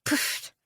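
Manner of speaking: dismissive poof. A narrator's reading. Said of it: "She let out a dismissive".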